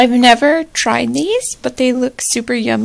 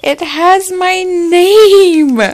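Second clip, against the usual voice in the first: slow, teary and louder; choked up; 3 semitones higher, 6 dB louder, slower than usual. Real, not acted. Vlogger finds her name on the gift, choked up. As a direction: let the voice catch with emotion.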